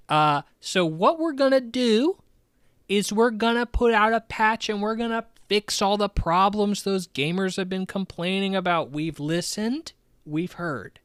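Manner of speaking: mock executive pitching fixes, high and loud; high-pitched placating. Mock CEO promising investors a patch, high-pitched.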